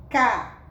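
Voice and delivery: CASEIRO as loud CA, pause, ZEI, pause, RO; syllable by syllable. Shown as a demonstration. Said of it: "vamos observar quantas sílabas ela tem".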